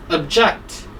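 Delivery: "object" stressed on JECT; stress on second syllable. Shown as a demonstration. Teacher shows students how to pronounce the verb, "object" stressed on JECT. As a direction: say "object" as the verb, ob-JECT, weak first vowel. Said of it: "stress is on the second part".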